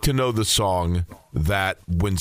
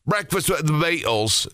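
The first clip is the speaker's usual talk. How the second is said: put-on terrible British accent; 5 semitones higher than usual. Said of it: "That's my terrible British accent".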